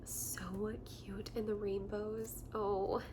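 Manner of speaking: slow breathy whisper; cooing softly over rainbow onesies, slowly; doting whisper. Real, not acted. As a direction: whisper it like a secret about something adorable.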